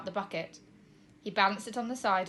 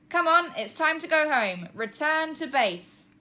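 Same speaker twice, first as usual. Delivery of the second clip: calling out; 7 semitones higher, 7 dB louder, slower than usual. A narrator's reading. Shouting into phone to dog.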